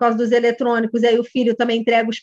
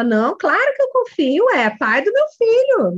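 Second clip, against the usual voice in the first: overprotesting mother; 7 semitones higher than usual. Retold or imitated. Mother assures coach she trusts her husband, overprotesting. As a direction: insist you trust him, a little too much. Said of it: "mas ali ela fala".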